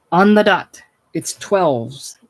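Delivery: loud, bright-eyed cheer on the dot; rally them like a cheerleader; cheerleader laugh. Acted. Hickey announcing midnight to the bar, cheerleader-style. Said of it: "laughs like a cheerleader".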